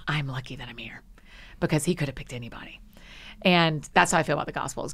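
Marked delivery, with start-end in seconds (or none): 0.1-2.8 quiet, humble and grateful. Retold or imitated. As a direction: say it softly, humbled. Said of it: "Your stance is".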